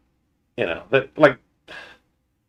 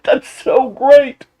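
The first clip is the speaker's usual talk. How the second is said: giggly delight; 13 semitones higher, 5 dB louder, much slower than usual. Retold or imitated. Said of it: "to go back and hear it come out".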